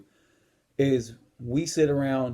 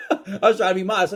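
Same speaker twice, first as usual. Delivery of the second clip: talking through a real laugh, higher and louder; 7 semitones higher, 6 dB louder than usual. Real, not acted. Man admitting his false modesty to viewers, laughing. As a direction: crack up while explaining yourself.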